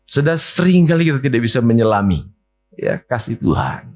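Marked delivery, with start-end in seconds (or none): none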